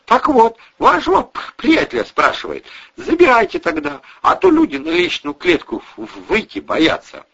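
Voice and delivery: high, loud voice stumbling over words; stammering retold complaint. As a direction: mimic the neighbour, tripping on words. Retelling neighbour's complaint.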